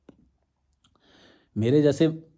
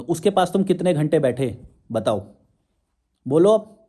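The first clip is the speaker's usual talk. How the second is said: demanding challenge. Real, not acted. Challenging silent critics.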